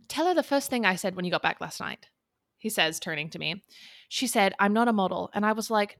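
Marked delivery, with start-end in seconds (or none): 0.1-2.1 lightly put-on English accent; a touch of imitation English accent. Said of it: "my worst accent ever". 4.6-5.3 lightly put-on English accent; a touch of imitation English accent. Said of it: "my worst accent ever".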